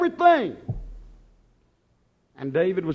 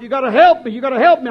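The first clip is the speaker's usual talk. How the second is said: mock desperate plea; 4 semitones higher, 9 dB louder, much faster than usual. Young self pleading with doctor.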